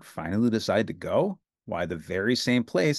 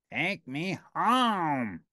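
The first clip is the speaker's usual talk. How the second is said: slow plea; 4 semitones higher, much slower than usual. Acted. Slow odd voice.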